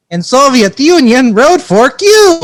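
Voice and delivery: slow, high mock Russian accent; exaggerated Soviet Russian accent, drawn out. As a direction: ham up a Russian Yakov Smirnoff line. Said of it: "Soviet accent".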